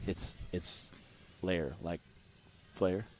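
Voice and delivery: very soft, low near-whisper; hushed retelling. Retold or imitated. Host explains what was said to a friend, in a hush. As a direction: keep it low and secretive. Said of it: "that's what I was saying to him".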